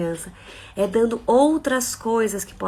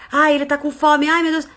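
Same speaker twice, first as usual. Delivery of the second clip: flustered mother; 4 semitones higher, 5 dB louder than usual. Acted.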